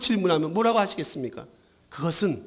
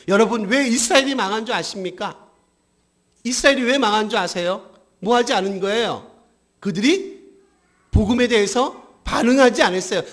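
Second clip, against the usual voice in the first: insistent rhetorical questions to a congregation; emphatic preaching; 4 semitones higher, 6 dB louder than usual. Acted. Preacher asks congregation why Israel fell, emphatic preaching. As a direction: press the congregation for an answer.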